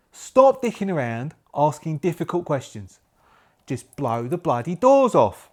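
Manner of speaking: loud, hammed-up Cockney film-star impression; Michael Caine. Major tells players off, as a hammy Cockney impression. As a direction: lean into a mock Cockney bark. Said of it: "I'm doing Michael Caine".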